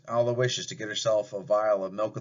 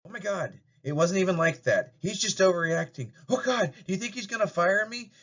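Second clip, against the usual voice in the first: higher, frantic, on the edge of tears; rising panic before sobbing; 8 semitones higher than usual. Acted. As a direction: daughter panics about losing her job. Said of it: "as she starts to sob".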